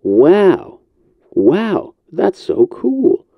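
excited. Real, not acted. Delighted reaction to the test recording.

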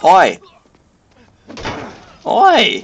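loud calls of Oi; shouting. Real, not acted. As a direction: yell to get attention. Calling out to goons.

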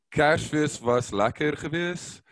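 a slow, self-conscious line of Afrikaans; a reluctant demo of Afrikaans, slowed down; speaking Afrikaans. Shown as a demonstration. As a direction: give a shy sample phrase, slowly. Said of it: "like, speak it?".

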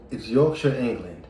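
badly faked English accent; clumsy American take on an English accent; butchered English accent. Shown as a demonstration. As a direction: attempt an English accent and botch it. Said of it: "I butchered that entire accent".

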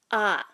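ah dropping down in pitch; Hmong falling tone. Shown as a demonstration. Teacher demonstrating tone M, falling ah. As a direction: let ah fall. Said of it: "falling tone".

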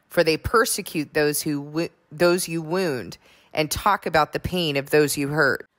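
measured, solemn psalm reading; scripture reading. Acted. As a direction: read it like a prayer before the congregation.

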